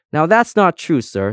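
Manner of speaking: firm contradiction, high and loud at first. A narrator's reading. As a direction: set them straight firmly. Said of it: "said Specs firmly".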